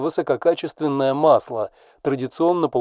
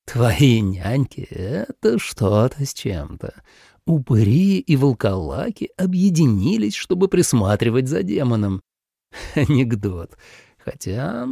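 demon voice. Acted. Demon mocks the babysitters.

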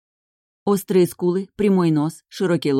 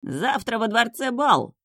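slow, higher, languid drawl; lazy dismissal; 7 semitones higher, slower than usual. A narrator's reading. Brunet waves off the angry groom, lazily dismissive. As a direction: brush it off airily. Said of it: "лениво отмахнулся от него брюнет".

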